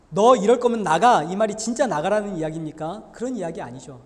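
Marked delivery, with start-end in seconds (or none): 0.1-1.2 angry parent shout. Retold or imitated. Angry parent's words, sermon example.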